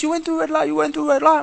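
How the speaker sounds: high, loud accusing cop voice; mock cop insisting on a red light; imitated policeman. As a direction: accuse him like a shrill traffic cop. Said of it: "we get pulled over by the police".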